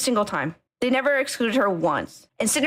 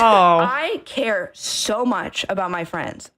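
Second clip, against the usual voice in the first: close to tears; 2 semitones lower, 3 dB louder, much slower than usual. Real, not acted. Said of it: "I know I might cry again".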